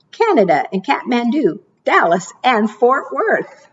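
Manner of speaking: lilting storybook read-aloud; sing-song picture book reading; reading to children. Acted. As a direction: read the rhymes like storytime for little ones. Reads rhyming picture book aloud.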